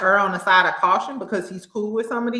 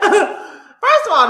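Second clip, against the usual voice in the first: talking through laughter; 12 semitones higher, 8 dB louder, much slower than usual. Real, not acted. Recovering from a laughing fit.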